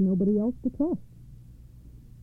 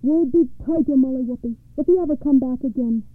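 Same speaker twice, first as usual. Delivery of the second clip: raised, threatening storybook yell; a touch of a yell, as a warning; mild angry yell; 3 semitones higher, 4 dB louder than usual. Acted. Giant threatening Molly across the bridge, mildly yelling. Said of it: "yelled at her".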